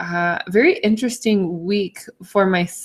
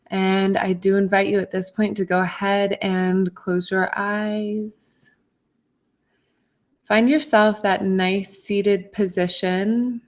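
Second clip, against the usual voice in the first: calm, even guiding voice with long pauses; guided meditation. Acted. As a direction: gently lead listeners through a grounding meditation.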